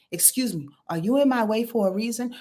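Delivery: composed and measured, no challenge; slowed-down polite question. Acted. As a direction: ask the man evenly, voice brought down. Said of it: "Okay, slow down".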